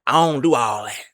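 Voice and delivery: "I don't" slurred to "ion" in casual slang; "I don't" with the d and t dropped; slang pronunciation. Shown as a demonstration. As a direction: run "I don't" together as "ion". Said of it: "That's how I say it".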